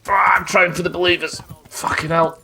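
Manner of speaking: high-pitched, real fluster; flustered outcry. Real, not acted. Player trying for the believers mid-fight, flustered. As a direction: cry out under pressure. Struggling in losing game fight.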